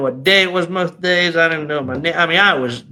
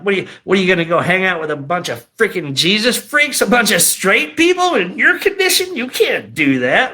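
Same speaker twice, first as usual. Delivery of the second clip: the enemy's voice; 2 semitones higher than usual. Retold or imitated. Enemy taunting him about hanging out with straight people, jeering. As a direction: sneer it like a tempter in his head. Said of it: "the enemy's voice would be like".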